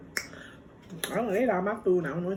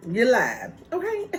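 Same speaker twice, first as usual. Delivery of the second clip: louder, up on okay; playful scolding; 5 semitones higher, 6 dB louder than usual. Real, not acted. Scolding viewers who forget to subscribe, louder. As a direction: wag a finger at the viewers. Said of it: "scolding viewers who forgot".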